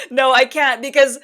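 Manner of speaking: mock-indignant outburst; exasperated no. Retelling her refusal to husband, mock exasperated.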